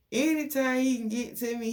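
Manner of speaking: a rueful laugh that lifts the line; half laughing in disbelief; laughing emphasis. Real, not acted. Repeats the line building emphasis.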